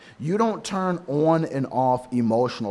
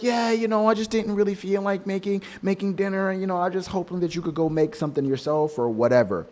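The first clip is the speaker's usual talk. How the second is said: careless wife; 4 semitones higher, faster than usual. Retold or imitated. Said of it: "she's like".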